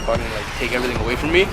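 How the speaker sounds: low, soft, wary question; small, quiet voice of retold disbelief; hushed disbelief. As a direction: ask timidly, expecting punishment. Retold disbelief at escaping punishment.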